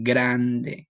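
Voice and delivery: grande said properly, GRAN-de with a tapped r; Spanish pronunciation. Shown as a demonstration. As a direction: model grande correctly for the class. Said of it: "The way you wanna say that one is actually grande".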